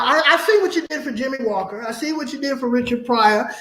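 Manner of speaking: ordinary delivery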